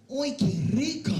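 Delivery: hammed-up lover's sigh. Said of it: "She'd be like".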